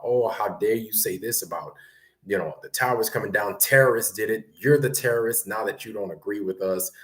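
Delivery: mildly outraged accuser, imitated; mock indignation. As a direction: imitate indignant critics piling on. Mimics outraged critics of the French.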